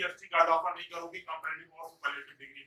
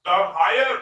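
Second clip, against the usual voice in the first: higher said loud and rising; stress on higher; 7 dB louder, much slower than usual. Shown as a demonstration. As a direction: lift higher up. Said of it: "H I जी H E R". (higher पर ज़ोर)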